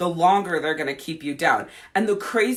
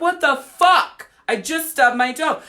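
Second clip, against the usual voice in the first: high, loud, slow outraged squeal; mock indignant you; 8 semitones higher, 5 dB louder than usual. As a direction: play someone baffled by the pain. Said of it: "You're like".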